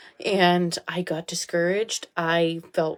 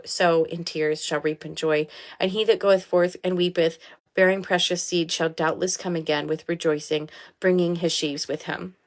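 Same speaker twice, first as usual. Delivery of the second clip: scripture reading. Acted. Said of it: "God says".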